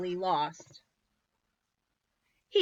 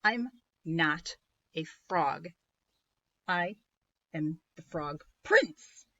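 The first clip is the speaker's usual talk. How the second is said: annoyed; slower than usual. Acted. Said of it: "getting a little annoyed".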